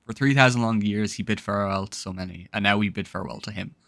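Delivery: low, subdued farewell, softening as it goes; solemn reading. Acted. Player reads the game's farewell to A Z, solemn and low. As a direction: read it like a quiet eulogy.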